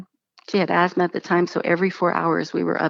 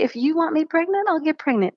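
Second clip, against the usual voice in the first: high, earnest plea to God; lifted prayer to God; 8 semitones higher than usual. Retold or imitated. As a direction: offer it up, pitched high. Praying to God, retold.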